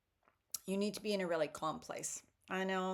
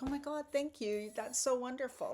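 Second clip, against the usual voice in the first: grateful gush; 6 semitones higher than usual. Retold or imitated. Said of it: "that I'm like".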